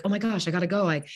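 high, quick excited chatter; chatty parents. Retold or imitated. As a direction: gush like a parent at the school gate. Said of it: "they're like".

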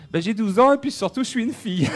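put-on young girl voice. Voicing a twelve-year-old girl.

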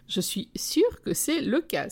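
high, slow, emphatic delight; emphatic exclamation. A narrator's reading. Friend agrees about the star after laughing, exclaiming. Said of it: "s'exclame mon ami".

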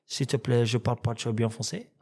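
imitating his own bad French accent; halting plea in badly accented French; broken French accent. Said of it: "Accent pété".

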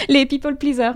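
English words in a French accent; rotten French accent. Real, not acted. Guest quoting an English expression, self-mocked French accent. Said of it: "avec mon accent pourri".

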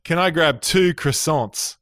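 slow, easygoing Aussie ask; drawn-out casual Aussie request; Aussie order. Retold or imitated. Aussie tourist orders croissants from the baker, slow and casual. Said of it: "in my very Aussie kind of way".

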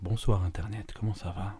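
breathy vintage purr; suave voice. Pretend. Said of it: "prenons notre voix suave".

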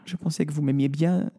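put-on mildly sad, high girlish voice; sad princess. A narrator's reading. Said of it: "dit tristement la princesse". (princesse un peu triste, voix aiguë)

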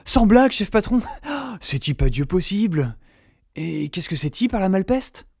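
rustic country voice. Acted. Rustic sidekick voice.

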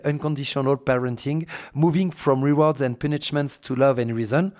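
English book title read with a strong French accent. Real, not acted. Podcaster apologizing for her accent, reads English title in French-accented English. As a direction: say the English words the way a French speaker would. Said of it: "tu m'excuseras d'avance pour mon superbe accent".

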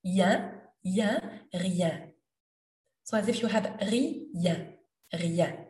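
"rien" with a "yen" glide, nasal end; "Yen" glide drill. Shown as a demonstration. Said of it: "like yes in English".

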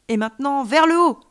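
high cry building to loud; exclaiming. A narrator's reading. Alien child cues friend to rise, exclaiming. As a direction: launch the last words upward. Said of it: "s'exclama-t-il".

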